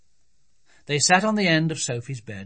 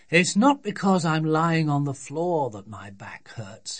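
lightly voiced exasperated dad; grumpy father; 3 semitones higher than usual. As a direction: explain it with weary irritation.

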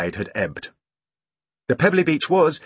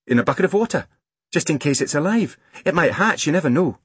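put-on high, earnest child's voice; hopeful young girl; 7 semitones higher than usual. A narrator's reading. Girl explaining her plan to her brother, hopeful. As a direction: make the case in a raised girl's voice.

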